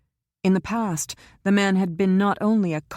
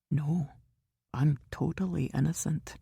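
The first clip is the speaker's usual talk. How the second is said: whispered; 5 dB quieter than usual. A narrator's reading. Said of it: "Caleb whispered".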